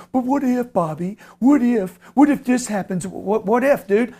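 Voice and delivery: mock a nervous investor's worries; a hint of a fretful doubter; anxious investor. Mimics an anxious would-be investor.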